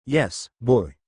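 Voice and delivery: mocking with a smile; cruel smile. A narrator's reading. Thorne mocks Luke as fragile, with a cruel smile. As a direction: sneer it down at the boy with a smile. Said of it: "Doctor Thorne said with a cruel smile".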